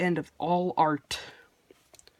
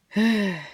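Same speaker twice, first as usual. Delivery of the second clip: breathless sigh; 3 semitones higher, 4 dB louder than usual. Real, not acted. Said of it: "Sorry, I'm out of breath".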